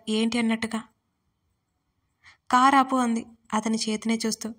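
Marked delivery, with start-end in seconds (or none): 2.5-3.0 louder, sharp command to stop; alarmed, loud stop order; urgent order. Acted. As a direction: stop the car, now. Sees wound, orders car stopped.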